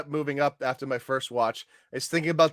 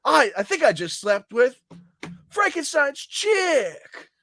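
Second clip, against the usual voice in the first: mock crying shout; 11 semitones higher, slower than usual.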